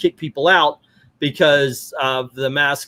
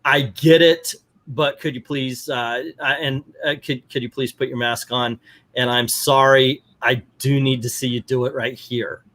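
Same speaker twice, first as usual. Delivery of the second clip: polite staff request. Shown as a demonstration.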